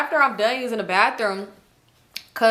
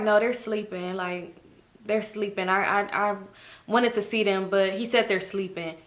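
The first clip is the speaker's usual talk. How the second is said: soft, teary, halting; tearful mumble; 5 dB quieter than usual. Retold or imitated. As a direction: mumble through tears. Janet tearful.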